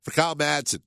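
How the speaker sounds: nasal voice from a cold; stuffy-nosed nasal voice. Real, not acted. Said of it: "my extra nasally voice today".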